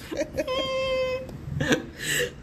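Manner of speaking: very high, soft squeal; imitated running noise. Co-host imitating the Flash running, high silly squeal. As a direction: squeak out a mock speedster noise. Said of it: "He makes that noise when he runs".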